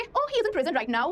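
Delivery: slow, posh-leaning English line; a light sophisticated English accent. Retold or imitated. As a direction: say it like a refined speaker, slowly. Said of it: "ज्यादा sophisticated हो तो क्या बोलेंगे".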